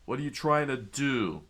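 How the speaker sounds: mock outraged shout; screaming. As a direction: holler it, stretching the last word. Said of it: "Solo screamed out".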